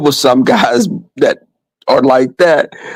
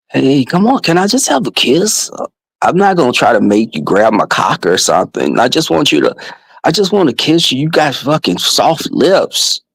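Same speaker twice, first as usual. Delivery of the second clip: lightly imitated drunk, wheedling suitor; drunk ginger friend; 2 semitones lower than usual. Drunk friend pestering her for a kiss, lightly imitated. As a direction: beg for a kiss in his voice. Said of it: "this is his voice".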